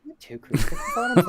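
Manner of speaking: squealing high shout; mock shout. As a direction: yell it in a squeaky voice. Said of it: "People are like".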